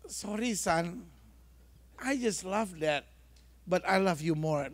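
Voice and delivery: soft, slow, lightly acted parent's reply; tender reassurance. Mother forgiving her child over the vase, understated tenderness. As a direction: gently soothe the child, low in volume.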